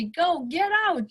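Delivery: a light imitation of her snapping him away; mock angry daughter. Daughter's angry order, retold.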